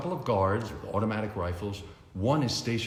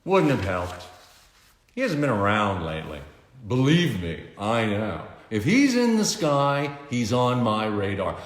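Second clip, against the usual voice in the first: louder, gloating tycoon voice; boastful Lex; 3 semitones higher, 5 dB louder than usual. A narrator's reading. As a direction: brag about the radar with relish. Lex boasts about Superman.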